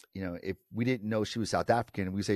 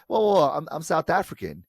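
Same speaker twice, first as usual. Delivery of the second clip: defensive protest; 7 semitones higher, 7 dB louder, faster than usual. Retold or imitated. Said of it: "She go".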